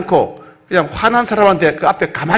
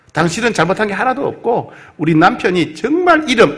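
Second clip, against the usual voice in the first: higher, earnest pleading voice; Abigail pleading; 5 semitones higher than usual. Acted. Abigail bowing before angry David, higher and pleading. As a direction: beg the angry general to calm down. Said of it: "앞에 엎드려서 이렇게 말합니다".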